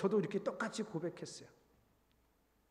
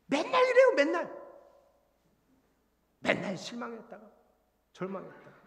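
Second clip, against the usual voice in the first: high, loud burst of self-reproach; exasperated outburst; 6 semitones higher, 6 dB louder than usual. Real, not acted. Preacher owns up to constant flip-flopping, exasperated. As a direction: cry it out much higher and louder.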